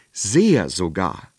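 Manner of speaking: hohe, laute, langsame Königsstimme; klagender König. Acted. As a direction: ein König, der jammernd Mitleid fordert. König klagt weiter. (König beklagt sich beim Zauberer, hoch und jammernd)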